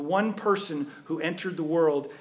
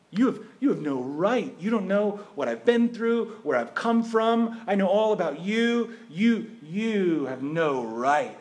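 louder, hammed-up wounded pride; indignant protest; 4 semitones higher, 4 dB louder than usual. Preacher acting out an offended person, indignant and loud. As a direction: bristle like someone deeply offended.

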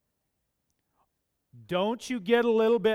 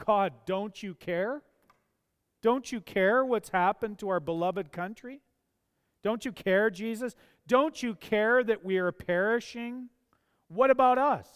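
anguished plea to God; 4 semitones higher than usual. Retold or imitated. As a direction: cry out to God as if abandoned. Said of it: "they thought".

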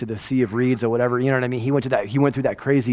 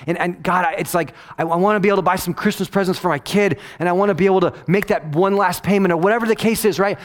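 imitating a desperate server praying to God; pleading prayer; 6 semitones higher, 3 dB louder than usual. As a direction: beg God for help, voice rising. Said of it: "they prayed and they said".

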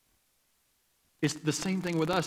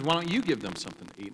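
fast, lightly tossed-off question rising on "you"; quick first quote; 3 dB quieter, faster than usual. Retold or imitated. Preacher quoting Jesus quickly to the crowd, fast and light. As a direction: rattle it off lightly. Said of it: "And Jesus says".

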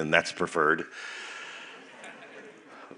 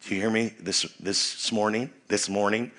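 playful prompt; 7 dB quieter than usual. Shown as a demonstration. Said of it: "This morning's not a word".

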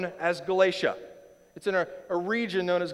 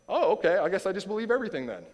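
fast, louder mock naive shrug; mock gullible reply; 3 semitones higher, 3 dB louder, faster than usual. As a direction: play the gullible listener who swallows it all, quickly. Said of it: "Can you imagine if that's what Jesus actually meant".

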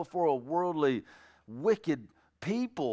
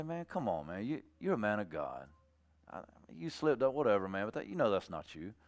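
softly coaxing a friend back; gentle appeal; 4 semitones lower, 7 dB quieter than usual. Acted. Restoring a brother who slipped up, gentle appeal. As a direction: plead low and kindly, man to man. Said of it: "coming at him to restore him".

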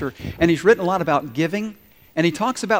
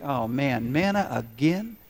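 put-on grumbling about the same old food, building to a loud rant; mock grumbling congregation voice; whiny complaining Israelites; 5 dB louder than usual. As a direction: start as a sulky whine and work up to a loud fed-up complaint. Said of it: "they started to think".

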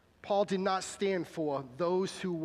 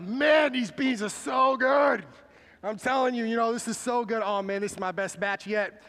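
mock greedy eater; 5 dB louder than usual. Preacher mocking a selfish potluck eater, loud and gloating. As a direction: ham up a selfish churchgoer savoring his dish.

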